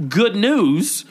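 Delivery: mocking brush-off; dismissive. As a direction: shoo him away with mock cheer. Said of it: "And I was like".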